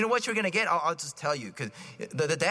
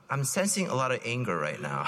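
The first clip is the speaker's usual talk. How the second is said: calm therapist voice; 6 semitones lower than usual. Retold or imitated. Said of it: "say it in a nice, calm voice".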